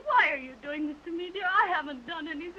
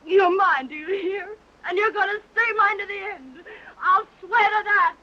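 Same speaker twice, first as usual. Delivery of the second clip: sobbing, shouting louder and louder; desperate crying shout; 2 semitones higher, 9 dB louder than usual. Acted. Jilted woman crying and shouting at departing Andy. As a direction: scream it through tears, clinging to him.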